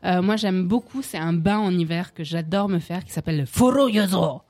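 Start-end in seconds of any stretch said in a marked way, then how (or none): 3.0-4.4 put-on Japanese accent. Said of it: "j'ai fait un accent japonais".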